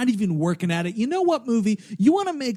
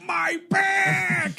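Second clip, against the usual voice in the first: high, shrill-sounding cartoon cry; cartoon yelp; 12 semitones higher than usual. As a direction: yelp like a slapstick victim. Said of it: "like a cartoon ate hot sauce".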